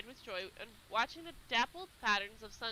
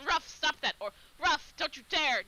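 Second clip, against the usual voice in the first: scolding shout; 3 semitones higher, 5 dB louder than usual. Retold or imitated. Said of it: "No reason to keep shouting".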